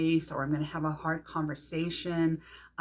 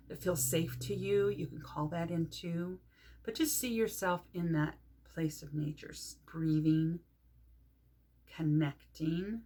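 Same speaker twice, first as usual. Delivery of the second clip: measured visualisation with long pauses; guided meditation. Shown as a demonstration. Teacher guiding listeners to a safe place in nature, guided meditation. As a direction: gently lead them to picture a place, drawing out key words.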